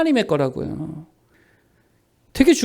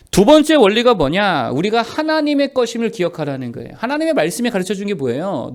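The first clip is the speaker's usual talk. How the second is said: usual speaking voice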